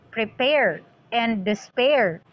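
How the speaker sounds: "Prepare and despair" stressed as prePARE and desPAIR; stress on second syllables. Shown as a demonstration. Teacher contrasting rhyme patterns for students, stress on last syllables. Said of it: "the second syllable is, uh, stressed".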